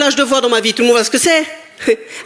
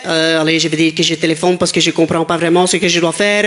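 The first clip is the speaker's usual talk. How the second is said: put-on low French with a Flemish accent; 6 semitones lower than usual. Stuck on the phone with police, mock Flemish-accented French. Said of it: "en français avec un accent flamand".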